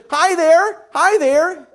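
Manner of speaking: put-on high, loud squealing baby voice; squealing baby joy. A narrator's reading. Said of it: "Eric squealed with joy".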